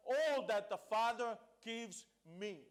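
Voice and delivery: All drawn out and emphatic; stress on All. Real, not acted. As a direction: read slowly, leaning hard on "All". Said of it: "I want to stress on the word".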